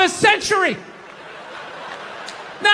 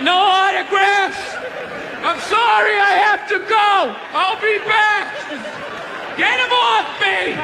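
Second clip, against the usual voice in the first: mock rock star; 5 semitones higher than usual. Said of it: "And you're like".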